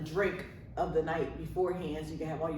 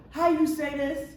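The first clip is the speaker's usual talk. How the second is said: put-on African accent; 9 semitones higher, 5 dB louder than usual. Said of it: "she had a heavy African accent".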